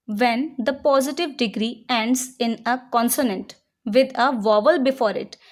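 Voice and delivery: slow, deliberate rule reading; slow dictation read. Shown as a demonstration. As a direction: read the rule out slowly for students to write. Reads rule slowly as dictation. (धीरे-धीरे नियम पढ़ना)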